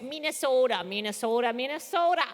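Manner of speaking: Midwestern accent warm-up, rising on the last; Midwestern cue line. Shown as a demonstration. Voice actor demonstrating a cue line, Midwestern accent. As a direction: repeat it to prime a Midwestern accent. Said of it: "give yourself a cue line".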